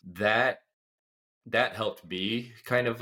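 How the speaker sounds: nasally from a cold; stuffy cold-nasal speech. Real, not acted. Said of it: "excuse me if I sound a little nasally".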